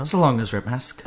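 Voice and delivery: quick run-through of the phrase; said fast. Shown as a demonstration. Demonstrating how it sounds professional when said fast. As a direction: rattle it off as one quick name. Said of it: "If you say it fast".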